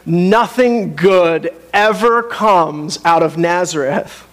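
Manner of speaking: slow, drawn-out dismissal; dismissive quote. Retold or imitated. Townsfolk doubting Jesus because of Nazareth, slow mock dismissal. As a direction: imitate sceptics writing off a town, word by word. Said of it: "They were like".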